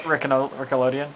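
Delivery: Rickelodeon, R swapped in; jumbled syllables. Pretend. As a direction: stumble into Rickelodeon. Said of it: "we need to stop".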